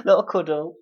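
broad Derby vowels in "Little cuddle", laughing; "Little cuddle" said the East Midlands way; Derby accent. Real, not acted. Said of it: "with your Derby accent".

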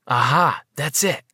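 light up with an idea; sudden realization. A narrator's reading. Narrator acts a sudden idea.

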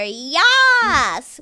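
huge drawn-out mock "yas"; high, loud, stretched-out whoop; imitated rousing cheer. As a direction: imitate a group cheering at full volume. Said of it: "say it again. And they go".

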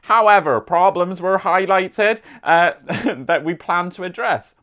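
light mock West Country accent, reading the council news; a gentle West Country burr on a local newsletter; hint of a rural West Country accent. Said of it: "I've been doing my West Country accent all weekend, so we're gonna stick with that".

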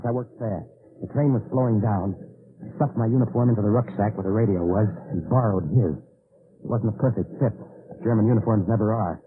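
first-person noir narration, tense and steady; story narration. A narrator's reading. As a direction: narrate the struggle like an old radio thriller. Narrator retells fight on train.

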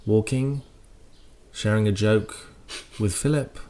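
hushed, halting commentary with long pauses; royal commentator. Acted. Royal commentator describing the Queen's walk, hushed and halting. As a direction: imitate soft, reverent royal coverage. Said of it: "do you think they speak like that".

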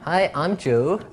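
teasing mock voice of a friend; mocking impression of Joe. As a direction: drag it out like a dopey caricature of your co-host. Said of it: "I don't even know what that accent was supposed to be".

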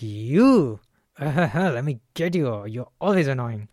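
a half-playful charge, slowed on let me get you; hammed-up heated jab at a friend; mock charged attack. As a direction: imitate someone coming at you, teasing but heated. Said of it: "come with more vigor".

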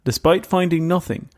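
measured storyteller read with dramatic pauses; story narration. A narrator's reading. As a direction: tell it like a creepy case file. Reads the Mothman story aloud.

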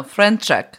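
"Franchek" with a put-on accent, first vowel as in "French"; accent demo. Shown as a demonstration. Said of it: "If you wanna do the accent".

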